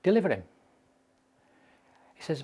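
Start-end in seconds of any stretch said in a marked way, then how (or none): 0.0-0.4 mildly raised, higher mock shout; short, louder and higher retold cry. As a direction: imitate a shout without fully shouting. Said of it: "somebody shouted".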